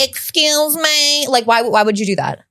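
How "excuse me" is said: mock polite interruption. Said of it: "be like".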